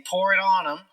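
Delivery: punchy command over the radio; barked order. Acted. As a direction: call it out like a commander. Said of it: "Philippe will bark out an order".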